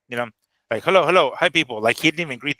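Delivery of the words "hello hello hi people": lightly mocked, slightly higher hello; a hint of a stilted recorded greeting; imitating Turki Al Sheikh. Host mocking the Turki Al Sheikh recording with a stilted greeting. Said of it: "And then Turkey's like".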